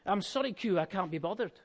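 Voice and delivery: lightly attempted Scottish Sean Connery; half-successful Scottish film-spy impression; attempted Scottish accent. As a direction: have a go at a Scottish accent, not quite convincing. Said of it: "trying to do a Scottish accent".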